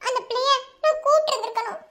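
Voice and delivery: weepy lament to her husband; crying. Acted. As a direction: keep sobbing as you blame yourself. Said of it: "பூனைக்குட்டி மாதிரி அழுகாம".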